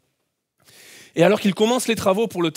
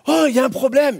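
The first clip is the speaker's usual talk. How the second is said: retold call, a bit louder and higher; mild mock yell; 4 semitones higher, 3 dB louder than usual. Man calling back to the instructor, mild mock yell. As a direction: call back over the wind. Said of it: "j'ai hurlé au moniteur".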